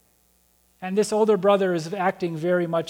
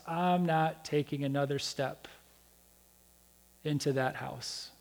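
much softer, fuming low refusal; fuming under breath; 7 semitones lower, 12 dB quieter than usual. Retold or imitated. Older brother refusing to go in, a soft fuming mutter. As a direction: grumble it through gritted teeth, stubborn. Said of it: "and just fuming".

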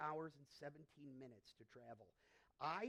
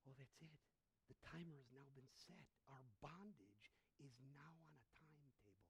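low, soft, resigned voice of creation; quietly voiced creation, soft and low; hushed dread; 4 semitones lower, 14 dB quieter than usual. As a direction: murmur it like a doomed sentence. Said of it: "they were like".

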